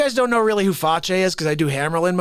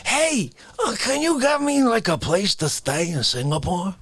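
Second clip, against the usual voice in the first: Dick Facce. Acted. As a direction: ask a favour in a put-on character voice. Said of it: "Facce is like".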